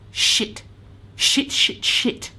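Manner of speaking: whispered panicked swearing under the breath. Retold or imitated. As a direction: hiss the curses so the horses won't hear. Panicking alone by horse paddock.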